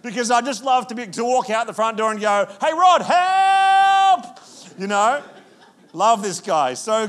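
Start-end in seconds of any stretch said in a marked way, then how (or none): 2.6-4.4 high, slow shout across the yard; calling out for help. Retold or imitated. Camper calling his handy neighbour, a long high shout. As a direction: yell out the front door for him.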